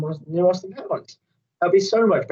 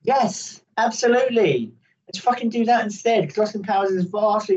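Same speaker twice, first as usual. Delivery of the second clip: a burst of high, eager agreement; excited yes; 6 semitones higher than usual. Real, not acted. Cohost jumps at reviving Austin Powers, excited. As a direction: leap on the idea, thrilled.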